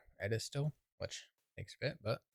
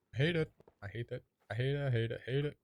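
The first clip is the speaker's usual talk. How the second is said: higher, rapid-fire repeated complaint; frustrated rant; 4 semitones higher, faster than usual. Real, not acted. Player fed up with unconnected track, frustrated rant. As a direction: spit out the repeats in mounting annoyance.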